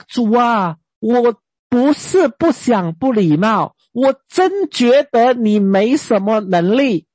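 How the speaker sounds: slow, blunt mock complaint to God. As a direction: drag it out, half daring God. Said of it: "你敢这样跟神讲吗".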